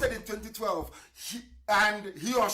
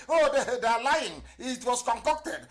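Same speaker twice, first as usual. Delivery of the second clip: mocking the critics; 4 semitones higher, 4 dB louder than usual. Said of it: "that's what they used to say".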